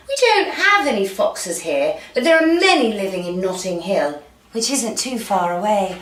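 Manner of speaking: lightly voiced posh British swan. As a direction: explain it with a touch of posh British. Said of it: "Let's make it a posh swan".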